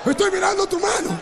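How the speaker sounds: astonished preacher's cry; amazed exclamation. Retold or imitated. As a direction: proclaim the miracle in a high, projected voice. Same answer, exclaimed in wonder.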